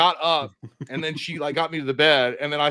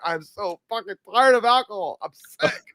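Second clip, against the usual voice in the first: higher-pitched imitation of a miserable drunk; drunken whining; 5 semitones higher than usual. Drunk man collapsed in the car, imitated drunken whining. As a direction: whine it like a sloppy drunk.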